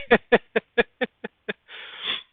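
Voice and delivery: breathy high giggle; high laugh. Real, not acted. Streamer laughing at his own addiction joke, high giggle. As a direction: let a high laugh escape.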